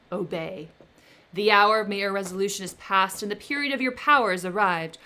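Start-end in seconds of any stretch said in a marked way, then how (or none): 1.3-5.0 firm, loud defiance; angry refusal. Acted. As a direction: stand your ground in anger. Victor furiously rejects the creature.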